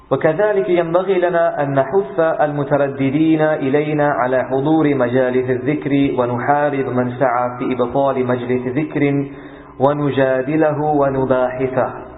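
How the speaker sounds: brisk, flowing classical Arabic read aloud; formal Arabic text reading. Acted. Teacher reading the book to students before translating, formal Arabic reading. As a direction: read the passage out in a steady, fast flow.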